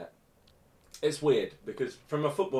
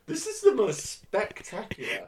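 mock awe; 5 semitones higher, 4 dB louder than usual. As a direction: gush over it, dripping with irony. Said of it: "I'm just like".

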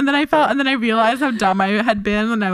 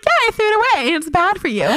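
laughing self-quote; 8 semitones higher than usual. Retold or imitated. Retelling her own reply, laughing.

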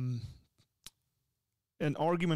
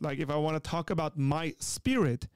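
ordinary talk, nothing marked

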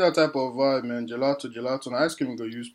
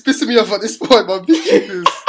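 loud sharp voice; 5 semitones higher, 5 dB louder than usual. Real, not acted. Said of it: "Why are you yelling?".

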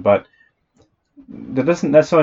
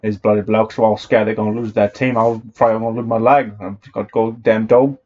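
a light Cockney voice, slowing at the end; Cockney accent. Retold or imitated. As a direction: do a Cockney bloke. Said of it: "that wasn't a bad Cockney accent".

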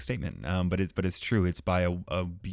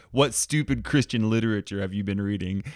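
put-on terrible Scottish accent; 5 dB louder than usual. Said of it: "this is gonna be a terrible accent".

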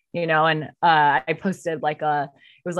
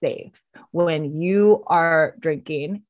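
pleading; slower than usual. Retold or imitated. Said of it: "And I said".

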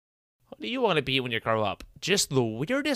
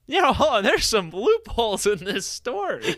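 mock cop; 10 semitones higher, 5 dB louder, slower than usual. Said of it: "be like".

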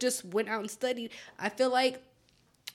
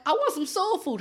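imitating little boy; 6 semitones higher than usual. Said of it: "he was like".

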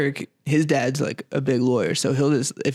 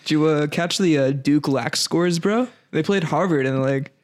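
lightly voiced frat bro chatting lacrosse; bro jock voice. To his buddy about Duke lax, a light bro voice. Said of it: "Fucking Chads".

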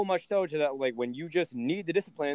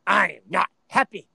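louder, higher mock nagging; mock nagging mom; 3 semitones higher, 3 dB louder than usual. Son mocking his mom's angry phone rant, louder and higher. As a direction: parody her rant as meh meh. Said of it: "she calls me".

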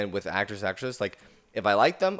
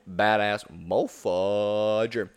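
playful drawl; much slower than usual. Pretend. Playful censored slow repeat.

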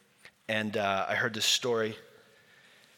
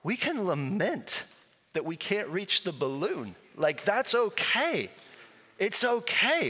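gentle preaching; 3 semitones higher than usual. Retold or imitated. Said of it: "I was like".

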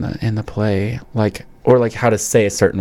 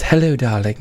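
put-on British accent; 2 semitones higher than usual. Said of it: "British T V shows or movies".

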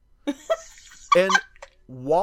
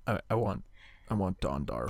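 timid customer; 7 semitones lower, 7 dB quieter than usual. Pretend. Mock shy paint customer.

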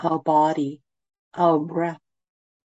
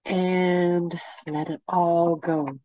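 guided meditation. Acted. Leads a meditation.

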